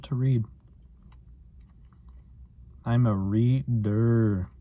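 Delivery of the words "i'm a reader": "reader" slow, with the final "der" drawn out and pushed; stress on der. Shown as a demonstration. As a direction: lean hard on the "der" of "reader", slowly. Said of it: "Emphasis on the der".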